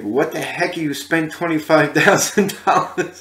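shocked disbelief. Retold or imitated. Elvis shocked at the price.

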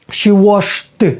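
"washed" as wash, then a separate t; ending T after SH. Shown as a demonstration. Teacher modelling the rule for learners, "washed" as wash-t. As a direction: detach a voiceless t at the end of "washed". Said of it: "Тут буде «ш»".

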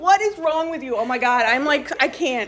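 very loud, high, stretched-out rant; outraged shout. Real, not acted. Berating friends over band shirts, outraged shout. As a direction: yell it in comic disbelief.

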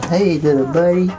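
high puppy greeting. Real, not acted.

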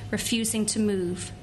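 normal talking voice

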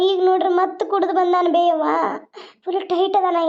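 acted sobbing complaint to mother; a daughter crying as she reports; tearful complaint. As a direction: complain through tears. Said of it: "ಮೊದಲು ಅಳುದಾರ ನಿಲ್ಸು".

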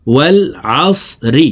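"আসরি" with a full, thick "স"; thick heavy sad. Shown as a demonstration. Teacher correcting seen for sad, thick "স" in "আসরি". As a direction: make the "স" in "আসরি" heavy, unlike a thin seen. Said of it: "মোটা করে পড়তে হবে".

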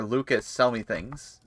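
slow, oddly drawn-out salesman ask; a drawn-out goofy request; odd put-on voice. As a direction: say it in a silly put-on way. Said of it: "I don't know why I said it like that".

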